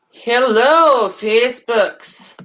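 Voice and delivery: a hammed-up, slow Russian accent greeting; mock Russian accent, badly done. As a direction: put on a clumsy Russian accent to say hello. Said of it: "that's a horrible Russian accent".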